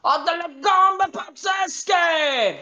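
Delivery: high, drawn-out showy shout; internet character impression. Actor imitates a famous Italian internet character, high showy drag shout. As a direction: cry it out like a flamboyant drag show-off. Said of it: "famous on the internet that actually said".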